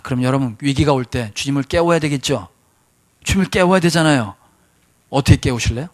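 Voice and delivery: normal talking voice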